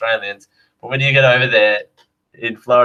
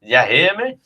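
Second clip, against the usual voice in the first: put-on Southern US accent; 3 semitones higher than usual. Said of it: "I hear the phrase".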